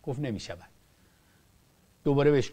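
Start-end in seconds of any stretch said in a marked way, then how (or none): 0.2-0.7 a soft, calm no, quieter than the story around it; mild, gentle refusal. Retold or imitated. Cleric gently refusing the king's contract, softly. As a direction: turn him down gently, without force. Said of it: "اول با لحن ملایم گفت".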